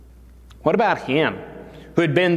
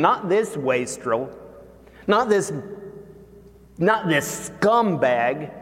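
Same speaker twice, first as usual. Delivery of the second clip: high, slowed, wounded protest; mildly whiny wounded son; hurt complaint; 4 semitones higher than usual. Acted. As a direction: plead that it isn't fair. Son voicing hurt to father.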